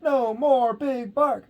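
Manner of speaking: slow, high cheer. A narrator's reading. The crowd cheering as the eagle carries off Big Bark. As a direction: cheer it out in triumph. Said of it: "the crowd cheered".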